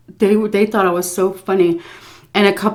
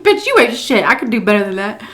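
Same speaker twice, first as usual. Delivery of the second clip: laughing mock insult, brash and loud; retold drunken heckling of a stripper, brash; sassy trash talk; 2 semitones higher, 3 dB louder than usual. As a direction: talk smack at the dancer with a laugh. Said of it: "I was talking shit".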